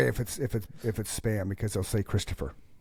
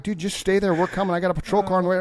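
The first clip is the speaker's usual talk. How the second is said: raised, louder calm-down voice; mock cop reassurance; 7 semitones higher, 5 dB louder, faster than usual. Fake officer telling the scammer to stay put, raised voice. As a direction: keep him on the line like a cop. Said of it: "I'm telling him".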